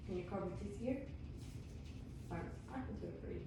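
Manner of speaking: soft unvoiced whisper for a hearing test. Shown as a demonstration. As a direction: whisper it quietly near the ear.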